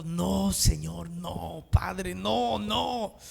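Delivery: noes lentos y apagados, suplicando; súplica dolida. Acted. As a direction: ruega al Padre bajito, sin fuerza. Jesús como ser humano suplica. (Jesús suplica al Padre, voz apagada y lenta)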